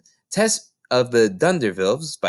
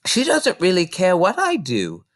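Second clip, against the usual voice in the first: a little sadly; 8 semitones higher than usual. Acted. Matilda telling Mrs Phelps about her mother, a little sad. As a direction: let the sadness just show. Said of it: "said a little sadly".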